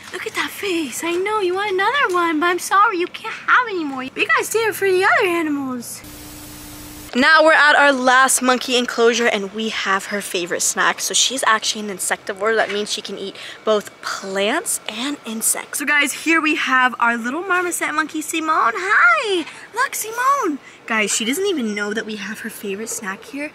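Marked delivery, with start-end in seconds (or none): 0.1-6.0 high cooing pet voice. Real, not acted. Keeper refusing begging monkeys more treats, high pet talk. 18.8-20.6 high, bright hello to the marmoset; greeting the pet. Real, not acted. Keeper greeting marmoset Simone, high pet voice.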